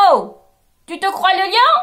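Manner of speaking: mock the fake lion together; animals mocking. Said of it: "s'exclament d'une seule voix". (les animaux se moquent en chœur)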